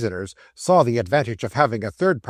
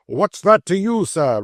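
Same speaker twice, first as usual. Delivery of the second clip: defiant retort; 6 semitones higher, 5 dB louder than usual. Acted.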